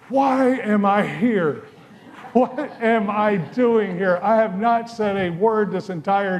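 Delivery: dazed recruit wondering what he's doing there; bewildered inner voice. Retold or imitated. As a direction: ask yourself slowly, stunned at the injustice. Stunned recruit's inner thoughts.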